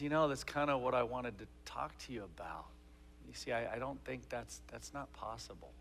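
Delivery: softly voiced hesitant father; soft, halting attempt at hard news; hesitant dad. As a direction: break it to a child softly, haltingly. Dad hesitantly breaking news to daughter.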